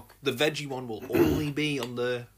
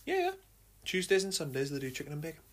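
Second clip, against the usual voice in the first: chewing while talking; 6 dB quieter, faster than usual. Real, not acted. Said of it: "I've just got a little dinner with me".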